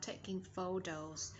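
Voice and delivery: slow "photos" with the middle T as a soft D; American T as D. Shown as a demonstration. Teacher shows American sound, "photos" with T as D. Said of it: "T trung âm đọc là D trong giọng của anh Mỹ".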